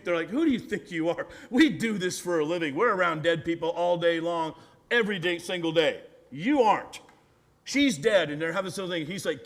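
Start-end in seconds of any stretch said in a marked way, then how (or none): 0.3-8.3 mildly acted outrage, louder; indignant retort. Mourners challenging Jesus, acted indignation. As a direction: push back like insulted professionals.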